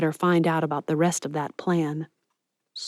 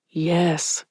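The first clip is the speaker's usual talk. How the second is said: gentler tone. A narrator's reading. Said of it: "he said in a much gentler tone now".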